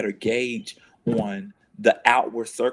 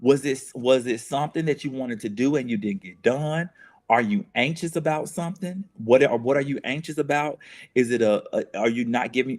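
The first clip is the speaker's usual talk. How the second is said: tender self-questioning; 3 semitones higher than usual. Retold or imitated. Speaker to herself when crying, high tender coaxing questions. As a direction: coax yourself like a caring friend, pitched up.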